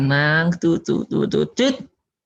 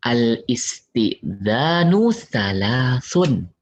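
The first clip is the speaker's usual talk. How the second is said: slow recitation; much slower than usual. Shown as a demonstration. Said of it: "Kata Nabi".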